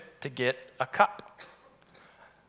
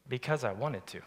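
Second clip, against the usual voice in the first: a little sass; 6 semitones lower, 11 dB quieter than usual. Retold or imitated. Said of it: "She's got a little sass".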